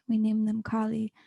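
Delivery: hushed repeated naming; whispering. Acted. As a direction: whisper the name Kali.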